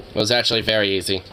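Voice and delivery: flat robotic alien overlord; steady, emotionless alien voice; robotic monotone voice. Acted. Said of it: "I'm just having a robotic monotone voice".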